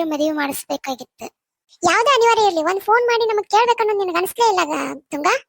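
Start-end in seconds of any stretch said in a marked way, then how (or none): 1.8-5.3 angry rebuke. Acted. Mother-in-law confronts daughter-in-law angrily.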